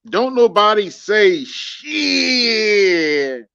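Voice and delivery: slow loud mock scold; mock stern. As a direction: drag it out like a mock warning. Host jokes about silent chat.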